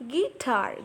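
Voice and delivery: "Guitar" divided into gui and tar; syllable demonstration. Shown as a demonstration. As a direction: show the two syllables of "Guitar". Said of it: "gi is a weak syllable and tar".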